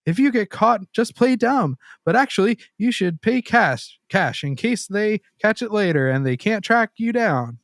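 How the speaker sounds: high, hushed, sly date voice; date's voice. Retold or imitated. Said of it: "my date said".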